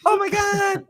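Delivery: squeaky cartoon-mouse mockery; very high, exaggerated impression of a fan; Igal. Mocking the co-host's match-day noise, squeaky impression. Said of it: "You sound like the Canadian Mickey Mouse".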